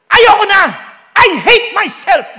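loud, drawn-out wail of despair; anguished cry. Retold or imitated. Preacher acting out someone who hates himself, wailing. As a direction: cry it out slowly and loudly. Acting out self-hating person.

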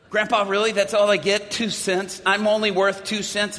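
high, laughing mock outrage at being worth so little; grandson's mock-indignant laugh; laughing disbelief. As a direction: play it as a teasing protest, half laughing. Teen protesting grandfather, laughing.

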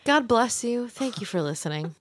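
soft, sultry sign-off. Acted. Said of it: "you have a very sultry voice when you say stuff like that".

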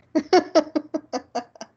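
evil chuckle. Pretend. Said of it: "you do the, the evil chuckles".

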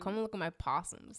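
attempted Australian accent. Shown as a demonstration. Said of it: "so we got that one".

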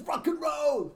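high, loud rock and roll yell; rock shout. Retold or imitated. Mimicking the song's yell, high and loud. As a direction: belt it out like a rocker. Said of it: "anytime I'm like".

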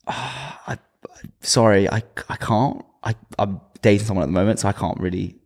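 imitating an awkward, apologetic brush-off; awkward refusal. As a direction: stammer through a reluctant let-down. Retelling his awkward turning-down.

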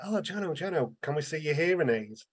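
a hint of excited schoolkids; imitated kids. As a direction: call out like children asking a favour. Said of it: "some kids ran over".

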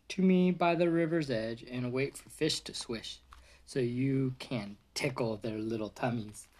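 gentle storybook read-aloud voice; reading to a child. Acted. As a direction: read softly like a bedtime book for a toddler. Reading picture book to toddler.

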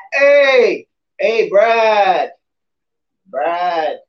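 loud, bro-ish party guy; frat guy voice. Retold or imitated. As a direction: hype frat bro calling out. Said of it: "He, he's like the frat guy".

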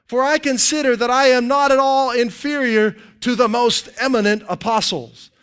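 understated mock deference; mildly sarcastic. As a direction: lay the praise on with light mockery. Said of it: "He's being kinda sarcastic there".

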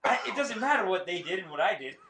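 put-on Southern accent, lightly preached; Joel Osteen. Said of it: "He's like, this Southern accent".

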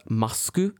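"masku" with a Japanese ending vowel; "masku", mask with an added u; Japanese pronunciation. Shown as a demonstration. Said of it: "in Japanese, it's pronounced".

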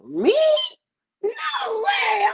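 overjoyed surprise at the offer; excited disbelief. Retold or imitated. Host reacts to friend's manager offer, shocked and thrilled. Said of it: "I'm like".

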